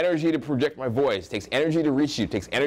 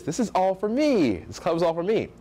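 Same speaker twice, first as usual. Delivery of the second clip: high, self-assured declaration; entitled mindset; 6 semitones higher than usual. Acted. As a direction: claim it all as yours, pitched up. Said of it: "The mindset is".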